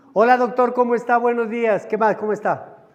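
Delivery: rapid-fire cheery greetings, easing off at the end; hearty patient greeting. Acted. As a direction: greet the doctor with a burst of overdone friendliness. Acts out patient greeting the doctor.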